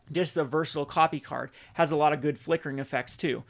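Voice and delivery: winded after a long talk; short of breath while talking. Real, not acted. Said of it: "let me catch my breath here".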